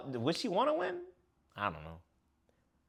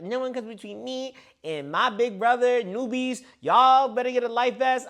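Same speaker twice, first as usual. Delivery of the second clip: 1 mock dramatic speech; 7 semitones higher than usual. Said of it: "long-ass soliloquy".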